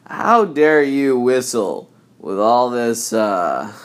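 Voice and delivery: slow, indignant scolding voice; angry stranger voice. Retold or imitated. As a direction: play an outraged stranger. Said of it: "I think that's what it was".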